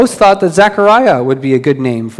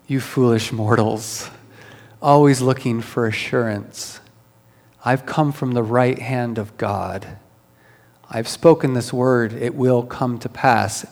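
slow theatrical villain menace; 2 semitones lower, 3 dB quieter than usual. Retold or imitated. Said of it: "Gabriel shushing Zechariah".

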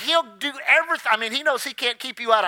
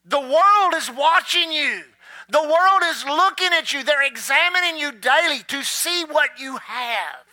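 preaching; 2 semitones higher than usual. Acted. Preacher warning the congregation, emphatic. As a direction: press the point on the congregation.

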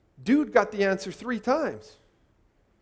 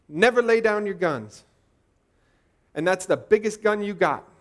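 loud rallying cry, NEVER punched; rallying call; 2 semitones higher, 6 dB louder than usual. Real, not acted. Preacher urging the struggling faithful, loud rallying cry. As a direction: rouse the congregation to fight on.

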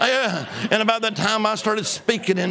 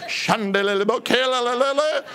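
speaking in tongues; 3 semitones higher than usual. Retold or imitated. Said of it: "not only was I speaking in tongues".

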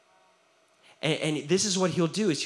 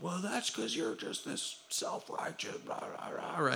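retold angry outburst; 11 dB quieter than usual. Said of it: "they just blew up".

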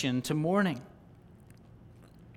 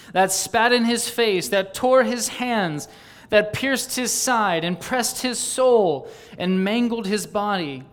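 higher, insistent litany; impassioned preaching; 4 semitones higher, 4 dB louder than usual. Real, not acted. Preacher indicting sin for Christ's suffering, impassioned. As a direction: drive each item home with rising fervour. Preacher builds list of sin's cruelties.

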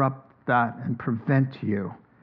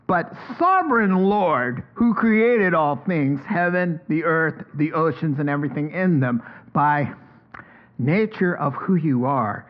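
prayer. Acted. Voicing the disciples' prayer.

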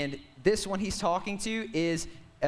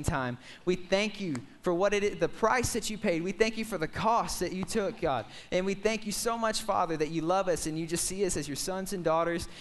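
prayer. Real, not acted. Leads a prayer.

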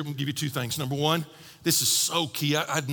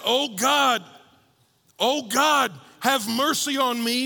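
pleading prayer; 5 semitones higher, slower than usual. Retold or imitated. Quoting David's prayer.

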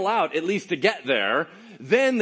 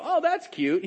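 high-pitched "aw, cute" brush-off; dismissive cooing; 12 semitones higher than usual. Acted. Preacher mimicking listeners who miss the point, dismissive cooing. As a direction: coo it lightly, as if it were nothing.

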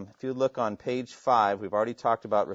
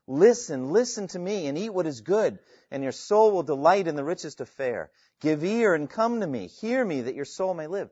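urgent, emphatic plea, building higher; imploring; 3 semitones higher, 4 dB louder than usual. Acted. God calling sinners to salvation, imploring. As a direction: plead it out as an open invitation. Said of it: "It's imploring, the Heavenly Father imploring".

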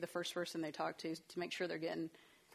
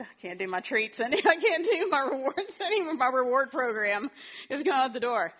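high, loud mock despair through laughter; laughing exasperated mom; 5 semitones higher, 9 dB louder than usual. Mom giving up on rewards, laughing and exasperated. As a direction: laugh out a tired parent's surrender. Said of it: "She's laughing 'cause she's like".

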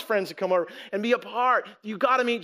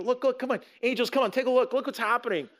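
lightly acted excited beckoning, higher pitch; excited calling; 4 semitones higher, faster than usual. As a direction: eagerly call others over, as a proud father. God proudly calling angels to look.

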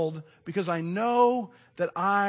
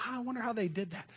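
softer, curious musing; musing to himself; 5 semitones higher, 7 dB quieter than usual. Retold or imitated. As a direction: think it aloud quietly. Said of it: "I'm intrigued by the way".

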